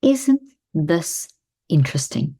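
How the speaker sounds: steady, calm demo line; calm phrase, dropping low at the end. Shown as a demonstration. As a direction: let interesting sink low and calm. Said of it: "just say".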